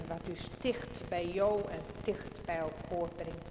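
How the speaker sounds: slow, solemn prayer voice. Acted. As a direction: pray aloud with pauses. Pastor leads congregational prayer.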